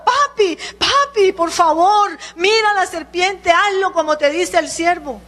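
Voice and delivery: put-on imagined children in tears begging their bitten father; tearful child. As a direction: beg daddy to look like a frightened little child. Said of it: "Quizás los hijos llorando".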